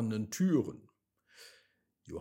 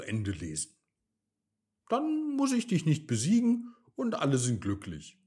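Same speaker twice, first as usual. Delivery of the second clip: loud, fast sarcastic retort; 2 semitones higher, 4 dB louder than usual. Acted. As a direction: brush the villain off with scorn. Johanna answers the wizard sarcastically.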